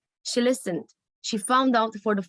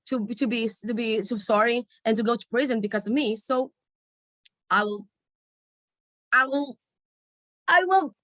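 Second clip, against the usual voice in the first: building distress. Retold or imitated. Daughter forces herself to agree.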